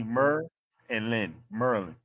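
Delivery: Mer then Lynn split, then Merlin whole; syllable by syllable. Shown as a demonstration. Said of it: "you know Mer from Practical Jokers and Lynn, Merlin".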